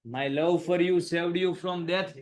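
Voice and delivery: very slow and drawn out; slow reading of a reproachful line; slow dramatic reading. Shown as a demonstration. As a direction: linger on each word as if reminding him. Reads Devyani's line aloud.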